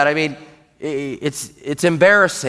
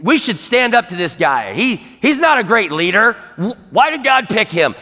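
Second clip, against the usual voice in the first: murmuring. Acted. Israelites rallying each other against Moses, murmuring. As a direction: start under your breath, then recruit others indignantly. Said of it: "were murmuring against Moses".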